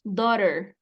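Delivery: daughter as DO-rer, tapped middle; pronunciation demo. Shown as a demonstration. Teacher showing how it will sound, careful model. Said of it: "Así es como va a sonar".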